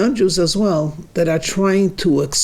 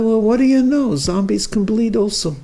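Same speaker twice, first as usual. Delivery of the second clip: mock surprise; 6 semitones higher than usual. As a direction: act amazed at the discovery. Tom sees his blood.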